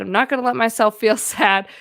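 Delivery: defiant self-talk, pushing the sadness away; a touch of mock determination with a laugh; stubborn self-denial. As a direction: play the stubborn inner voice refusing to feel. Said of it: "But what doesn't help is telling myself".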